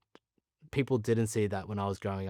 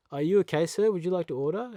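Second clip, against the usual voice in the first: lightly voiced server, higher pitch; imitated café server; 7 semitones higher, 5 dB louder than usual. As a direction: politely ask a customer, voice lifted a little. Voicing a café server to him.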